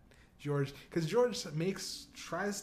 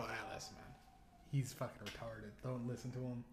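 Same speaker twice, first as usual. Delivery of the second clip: hushed aside; 7 semitones lower, 12 dB quieter than usual. Retold or imitated. Confiding excuse to stranger.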